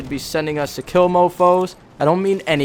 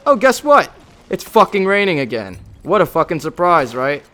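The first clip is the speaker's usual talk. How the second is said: sarcastic; 4 semitones higher, 5 dB louder than usual. Acted. Reading sarcastic diary about rain.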